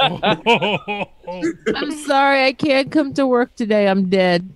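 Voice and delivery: lightly voiced valley girl calling in dead; drawn-out valley girl whine; mock valley girl phoning in sick. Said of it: "Why does Dell have such a good valley girl".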